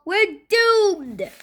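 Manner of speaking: high-pitched cry of doom; despairing shout. A narrator's reading. Cheeseball to Fluffy as they fall, despairing shout. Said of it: "shouted Cheeseball".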